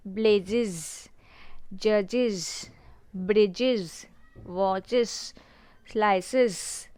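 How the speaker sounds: "ब्लेजेस" through "स्लाइसेस" each ending in drawn-out iz; buzzing iz ending. Shown as a demonstration. Teacher drilling plurals, "ब्लेजेस" to "स्लाइसेस" with buzzed iz endings. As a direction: separate words, buzzing the ends of "ब्लेजेस", "जजेस", "ब्रिजेस", "वॉचेस", "स्लाइसेस". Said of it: "buzzing sound आ रहा है".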